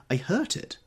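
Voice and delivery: high, whiny little complaint; complaining. A narrator's reading. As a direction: pout over the hurt finger. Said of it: "she complained".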